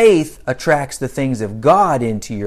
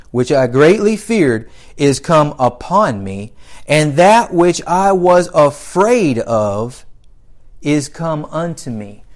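scripture reading; 4 dB louder than usual. Acted. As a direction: read the verse out with preacher's weight. Reads scripture aloud to congregation.

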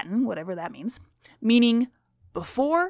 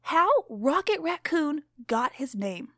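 lightly voiced stern schoolteacher; strict teacher; 3 semitones higher than usual. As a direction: read to the class as a stern teacher.

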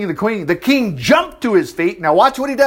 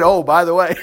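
amused laughing. Real, not acted. Amused retelling, laughs around it.

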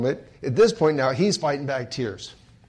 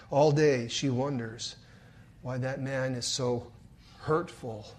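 quiet, sorrowful repeat; 4 semitones lower, 7 dB quieter than usual. A narrator's reading. Preacher retelling a girl's pain, hushed and sad. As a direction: let it sink in hushed.

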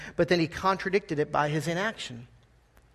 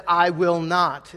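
slow, blunt refusal; slow emphatic "I will not."; emphatic rude refusal; 5 dB louder, much slower than usual. Retold or imitated. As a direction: flatly refuse the father. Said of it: "very emphatic, very rude".

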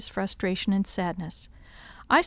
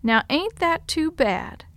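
frowning sympathy; 7 semitones higher, slower than usual. A narrator's reading. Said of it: "then said with a frown".

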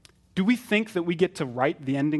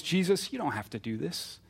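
stranger's tempting voice; 5 dB quieter than usual. Acted. Peter urging Jesus away from the cross, softly tempting. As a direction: gently talk him out of it, voice falling away. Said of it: "using the stranger's voice".

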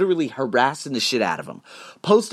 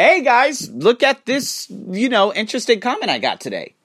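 high, loud, bright "hey guys" intro; much higher, louder host voice; upbeat Instagram host; 8 semitones higher, 3 dB louder than usual. Retold or imitated. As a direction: announce it like a cheery influencer post. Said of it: "and say".

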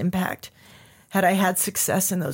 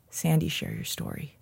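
1 hushed inner voice; 3 semitones lower, 6 dB quieter than usual. Retold or imitated. Inner voice remembered.

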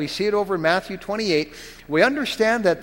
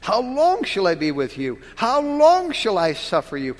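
lamenting. Acted. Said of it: "the lamenting in the Savior's voice".

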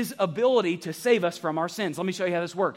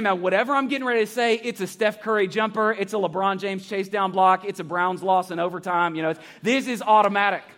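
hyped paraphrase. Retold or imitated. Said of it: "He's saying".

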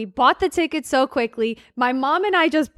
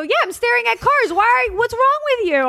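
higher, mock-indignant retelling of her own reply; exasperated; 10 semitones higher, 3 dB louder than usual. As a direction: toss it back like he's being silly.

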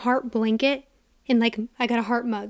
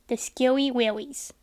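slow, drawn-out spooky voice. Shown as a demonstration. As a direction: savour it like a campfire ghost story. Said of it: "But I did get the scary willies".

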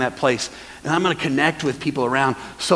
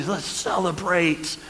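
slow, hushed, savoring each word; a gently voiced father, drawing it out; father welcoming son; 4 dB quieter, slower than usual. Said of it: "what does the father do?".

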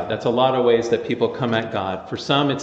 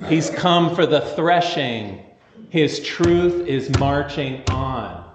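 prophet John; slower than usual. Retold or imitated. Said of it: "because John says".

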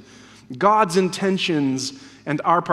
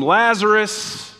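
raised, drawn-out call, short of shouting; imitated tomb shout; 2 semitones higher, slower than usual. Preacher re-enacting Jesus at the tomb, raised call. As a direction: call the name long into a tomb. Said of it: "Jesus shouts into that death tomb".

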